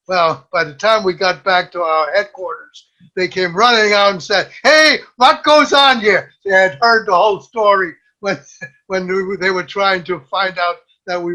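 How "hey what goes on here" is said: put-on teasing, loud, high German accent, slow; mock German accent. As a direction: parody the interpreter's German accent. Comrades mock the German-accented question.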